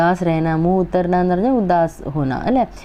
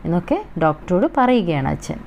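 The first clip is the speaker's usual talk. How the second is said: ordinary delivery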